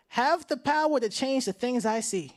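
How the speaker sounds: slow, measured call to repeat; deliberate pledge for an audience to echo; leading a pledge. Real, not acted. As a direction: lead the crowd phrase by phrase. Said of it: "repeat after me one time".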